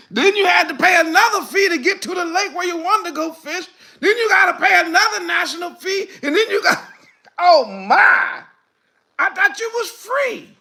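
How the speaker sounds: high, loud laughing disbelief; laughing rant. Real, not acted. Preacher to congregation about fishing fees, laughing. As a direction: laugh through the outrage.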